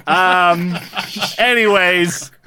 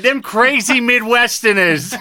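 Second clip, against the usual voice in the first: put-on Midwestern accent. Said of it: "that's where I'm gonna settle in".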